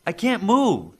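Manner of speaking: loud high cry of someone stuck in place; yelling. Acted. Trapped woman yells to Joseph that she can't move. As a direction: yell it out, trapped and scared. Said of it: "she yelled".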